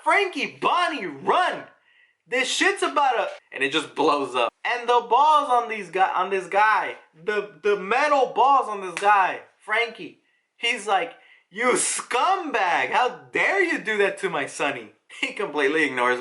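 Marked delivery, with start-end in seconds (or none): 0.0-3.3 retold scream. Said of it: "Lilith screams out". 11.5-14.9 mock outrage. Acted outraged quote of Frankie.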